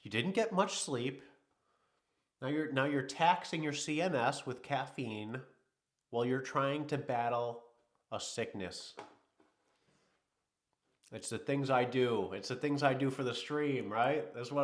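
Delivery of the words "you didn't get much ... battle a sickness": a body part pleading with its owner; nervous system scolding. Retold or imitated. His nervous system scolds him for the caffeine, mock-exasperated. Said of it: "my central nervous system is like".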